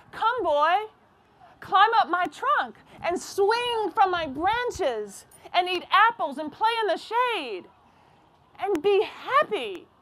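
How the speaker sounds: a hint of a kindly tree calling the boy; gentle tree.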